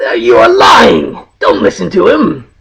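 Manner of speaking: lightly voiced angry giant head; a hint of a giant shouting back; two bickering giant voices. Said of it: "the other head says no".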